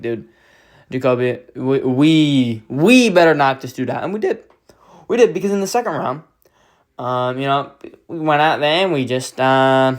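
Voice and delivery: put-on light Australian accent, pumped fan; lightly put-on Aussie hype voice; a hint of an Australian streamer cheering; Aussie Casual impression. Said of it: "I'm doing an Aussie Casual impression".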